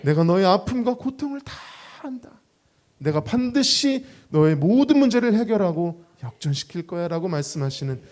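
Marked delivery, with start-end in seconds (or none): 0.0-7.1 voice of God. Acted. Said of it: "주님 말씀하십니다".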